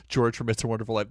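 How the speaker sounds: a light, quick hint of Jimmy Stewart. Streamer doing his Jimmy Stewart bit, voiced lightly. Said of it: "That is my Jimmy Stewart impression".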